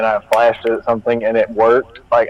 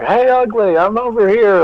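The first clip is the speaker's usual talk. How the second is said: taunting yell; 9 semitones higher than usual. Pretend. Player baiting a creature to get its attention, taunting yell. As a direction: call out high to draw attention, not full volume. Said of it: "just yelling".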